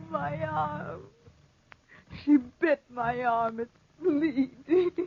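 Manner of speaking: shaken. Acted. Bitten by the panther.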